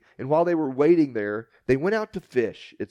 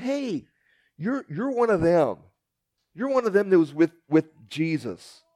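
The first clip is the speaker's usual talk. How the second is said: a lightly voiced little girl, pitched up; 4 semitones higher than usual. A servant girl recognizing Peter, lightly voiced and high. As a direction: point him out like an eager young girl.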